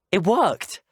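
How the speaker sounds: high, delighted exclamation; excited triumph. Acted. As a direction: burst out high with the thrill of success. Success after an attempt.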